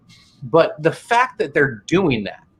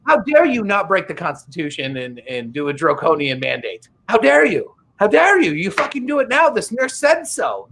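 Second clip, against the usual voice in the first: shaking with anger; 3 semitones higher than usual. Retold or imitated. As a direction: rant like an outraged activist. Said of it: "where's my Greta button".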